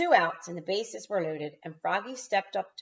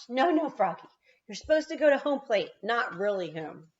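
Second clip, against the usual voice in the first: calling out to Froggy; 5 semitones higher, 4 dB louder than usual. Real, not acted. Teacher calls out to Froggy.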